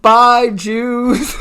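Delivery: high, loud sing-out goodbye; little girl. Retold or imitated. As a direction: imitate a child calling farewell. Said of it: "Some little girl went into a casting room".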